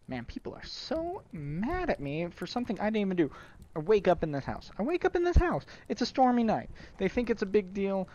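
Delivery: hammed-up Brooklyn grievance; mock-aggrieved Brooklyn accent. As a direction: complain in a put-on Brooklyn accent. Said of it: "a Brooklyn accent anyway".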